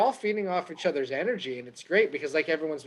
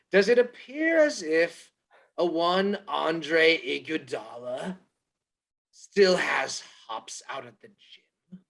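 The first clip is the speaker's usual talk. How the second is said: mock announcer; slower than usual. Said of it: "park in my old Tom Green antics".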